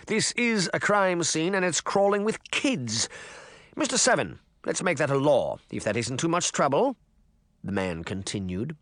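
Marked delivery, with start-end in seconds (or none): 0.1-7.0 raised, pompous official voice; pompous mayor. A narrator's reading. Mayor talking down to his assistant, pompous and raised. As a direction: lord it over the little man.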